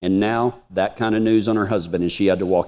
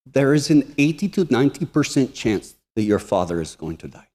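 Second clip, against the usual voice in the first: put-on Russian accent; 2 semitones higher than usual. Russian doctor giving a son the grim odds, imitated Russian accent. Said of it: "the dude had a Russian accent".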